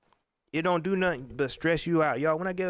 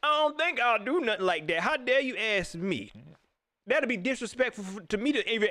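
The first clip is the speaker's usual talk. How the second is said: raised, huffy imitation; mock indignant coach; 4 semitones higher than usual. Host mimicking the coach's outrage, higher mock huff. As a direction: play it offended and fake. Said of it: "That's how you sound".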